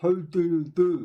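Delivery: slow, loud speech through a mouthful of food. Greeting someone while eating, talking with mouth full. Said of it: "I had a mouthful of food".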